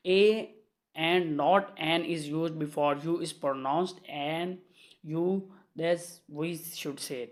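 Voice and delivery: very slow, word-by-word classroom reading; measured dictation of a grammar rule. Shown as a demonstration. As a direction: dictate the rule so students can write it down. Rereads the rule slowly.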